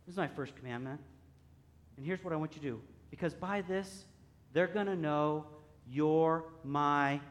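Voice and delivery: a touch of tender softness; kinder. Retold or imitated. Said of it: "Maybe he was a little kinder than that".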